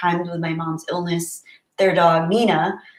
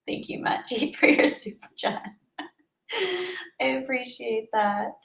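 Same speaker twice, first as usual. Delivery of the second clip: put-on breathy Valley Girl; 6 semitones higher, 8 dB quieter than usual. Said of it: "best Valley Girl voice".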